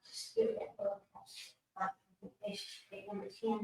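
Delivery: soft unvoiced whisper. Real, not acted. Whispering to herself while working. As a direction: breathe the words out.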